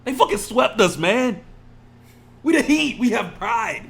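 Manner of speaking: loud, high, hurting protest; real fan fury, loud and high; anguished outburst. Real, not acted. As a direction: yell it out like a wounded fan. Venting about the sweep.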